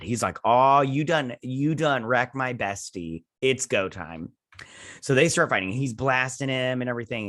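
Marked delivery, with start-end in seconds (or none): 0.4-4.3 slow, drawn-out mock fury; mock anger. Hero avenging his wrecked bestie, mock angry. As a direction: stretch the words in a lightly played rage. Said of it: "he gets mad".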